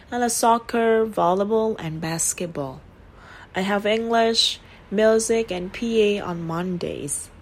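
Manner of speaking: each item rising, falling after "and"; list intonation. Shown as a demonstration. Teacher modelling a list, slow, falling after and. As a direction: rise through the list, fall after "and". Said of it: "Xuống giọng sau lên từ and".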